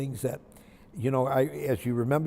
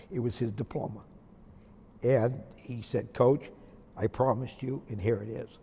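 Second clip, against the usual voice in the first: softer, choked-up voice, holding back tears; getting emotional; 2 semitones lower, 4 dB quieter than usual. Real, not acted. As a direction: hold the words back as emotion rises. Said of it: "I'm gonna get emotional".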